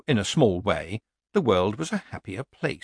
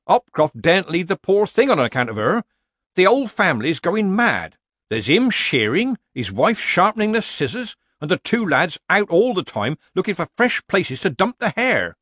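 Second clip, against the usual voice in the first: higher, louder villager voice playing innocent; nervous villager; 8 semitones higher, 5 dB louder than usual. A narrator's reading. Villager pretending innocence to Nanny Ogg. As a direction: feign surprise like a bad amateur actor.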